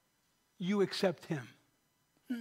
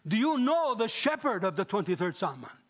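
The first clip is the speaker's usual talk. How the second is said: serious, insistent repeat; 3 semitones higher, 5 dB louder than usual. Retold or imitated. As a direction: ask again with full conviction, leaning on "know". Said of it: "he was very serious about it".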